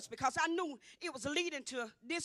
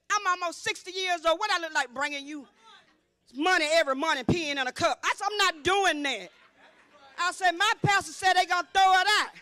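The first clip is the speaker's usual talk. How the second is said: defiant retort; 6 dB louder than usual. Retold or imitated. Retold defiant reply to court.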